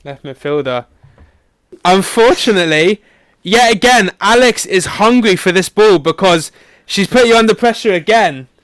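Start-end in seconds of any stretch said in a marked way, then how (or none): 1.8-8.5 teasing commentary. Acted. Quiz host teasing a failed pass.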